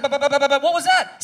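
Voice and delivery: high, loud stammering shock; startled stammer. Retold or imitated. Driver startled after hitting something. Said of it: "It's like".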